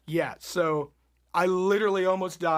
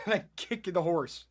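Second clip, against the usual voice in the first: ordinary talk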